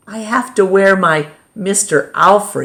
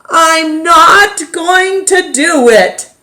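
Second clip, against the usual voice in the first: higher, louder, slower stress on not; firm vow; 10 semitones higher, 6 dB louder, slower than usual. A narrator's reading. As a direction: insist aloud, refusing. Repeated vow, growing.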